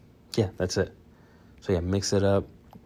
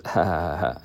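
fake laugh. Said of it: "do a fake laugh before".

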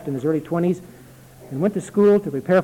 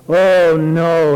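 reassuring; 7 dB louder than usual. A narrator's reading. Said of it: "he said reassuringly".

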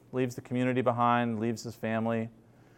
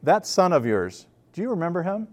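scornful question; 5 semitones higher than usual. Retold or imitated.

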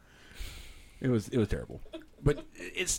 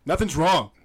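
louder, insistent retort; mock denial; 3 semitones higher, 5 dB louder than usual. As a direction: act out a partner insisting nothing's up. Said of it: "honey, are you okay?".

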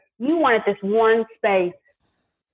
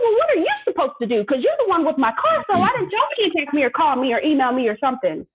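indignant; 5 semitones higher, faster than usual. Retold or imitated. Retelling her complaint to the clerk.

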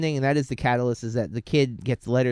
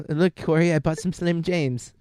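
hammed-up, higher British accent; horrible British accent; 5 semitones higher than usual. Teasing Corey about the snack, bad British accent. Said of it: "it's my horrible British accent".

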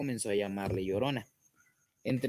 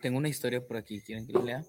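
sore throat voice; faster than usual. Real, not acted. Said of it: "¿Y por qué hablas así".

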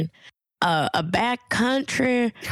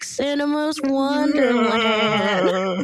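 creepy voice; 4 semitones higher than usual. Acted. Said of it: "Casey, what's this voice?".

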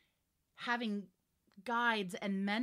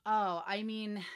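ordinary talk

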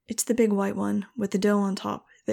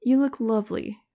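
deadpan compliment, pitched a bit up; straight face; 3 semitones higher, 4 dB louder than usual. Acted. Max teasing the fluffy bathed dog, deadpan. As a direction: keep it dry, hiding the tease. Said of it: "I said with a straight face".

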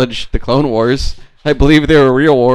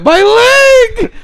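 SpongeBob fish impression; 6 dB louder than usual. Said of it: "my impression of that fish from SpongeBob".

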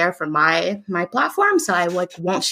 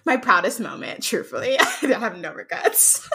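laughing; 4 semitones higher, 3 dB quieter than usual. Real, not acted. Laughing about throwing drink.

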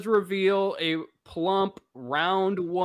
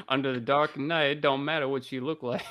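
Phil Robertson impression; faster than usual. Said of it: "Is that when he's like".

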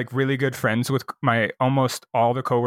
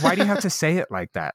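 higher-pitched mock protest; retold manager's complaint; 4 semitones higher than usual. Manager objects to the crude remark, retold in higher-pitched protest. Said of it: "And she goes".

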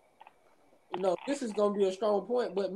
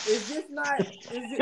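chipmunk voice; 2 semitones higher than usual. Real, not acted. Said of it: "chipmunk rat".

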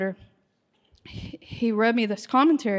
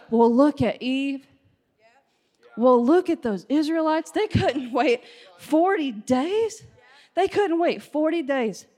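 mock self-righteous. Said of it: "how arrogant we are to go".

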